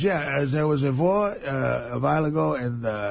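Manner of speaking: imitated German tour guide; hesitant explaining in a German accent; halting German-accented English. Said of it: "he has that accent".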